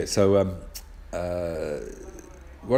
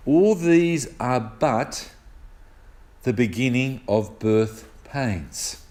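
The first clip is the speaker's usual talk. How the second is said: very slow, weighty verse reading; solemn scripture reading; much slower than usual. Real, not acted. Preacher reading the key verse to the congregation, solemn and slow. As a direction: read it out deliberately, drawing out the words.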